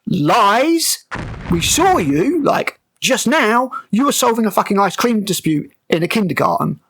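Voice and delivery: high-pitched, incredulous callout; indignant accusation. Real, not acted. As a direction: call out the lie with exasperated disbelief. Accusing the character of lying.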